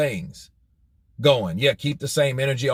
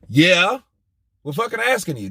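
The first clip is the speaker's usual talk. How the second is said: mock retort; 4 semitones higher than usual. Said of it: "that's what he asked you".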